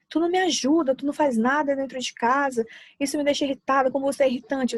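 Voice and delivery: a mock accusation to a spouse about housework; accusing complaint. Shown as a demonstration. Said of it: "Ao invés de você falar assim".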